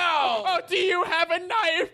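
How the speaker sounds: high, hammed-up shocked question; appalled victim. Victim guessing the robber's weapon, appalled high voice. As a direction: pipe up in mock horror, high-pitched. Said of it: "He's appalled that you're bringing up".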